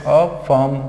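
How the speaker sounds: अफर्म with a stop after अ; syllable break. Shown as a demonstration. Teacher answers how to read it, syllable break. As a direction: cut अफर्म in two, र left silent. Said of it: "यहाँ पे आप cut कर देते हो".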